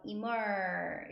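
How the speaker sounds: "emer" as one sounded-out chunk, ee-mer; first part of the word, emer, said on its own; syllable model. Shown as a demonstration. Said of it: "이렇게 발음하시면 되고".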